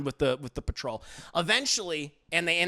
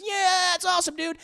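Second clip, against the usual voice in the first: mocking bro voice; 3 dB louder than usual.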